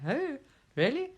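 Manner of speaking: hoch, lachend gespieltes Staunen; mock surprise. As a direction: fake surprise, high and laughing. Feigned surprise at news.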